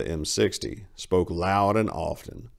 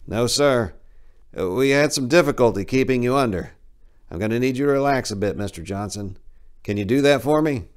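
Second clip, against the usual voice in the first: technician voice; 6 semitones higher, 5 dB louder than usual. Acted.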